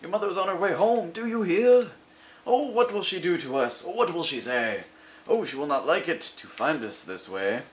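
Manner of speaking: high, loud, frantic fish voice; a fish in a flap about mother; panicked fish. Acted. The fish warning mother is coming, high and frantic.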